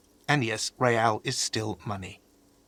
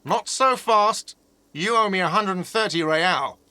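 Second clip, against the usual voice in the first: higher-pitched, insistent demand; demanding payment; 6 semitones higher than usual. Acted. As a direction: halt a guest trying to leave without paying. Stopping a guest leaving unpaid.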